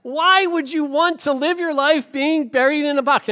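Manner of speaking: mock-bark it at her like a blunt counselor; retold yelling. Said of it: "He starts yelling at her".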